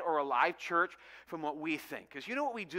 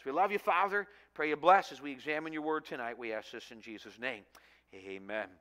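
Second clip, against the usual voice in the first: hushed, earnest prayer voice. Acted. Pastor praying before the message, earnest and hushed. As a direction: pray sincerely over the congregation.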